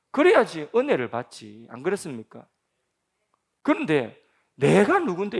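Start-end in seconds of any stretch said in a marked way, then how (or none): 4.5-5.4 loud, high, offended demand; proud man's angry retort; indignant outburst. Retold or imitated. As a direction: bark it like an insulted general. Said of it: "이러고 있잖아요".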